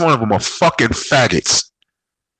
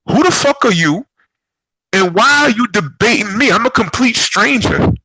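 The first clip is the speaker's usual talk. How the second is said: pitched way up, challenging a stranger; high indignant comeback to an online heckler; indignant retort; 10 semitones higher than usual. Retold or imitated. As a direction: snap back like he's out of line. Retold confronting Instagram stranger.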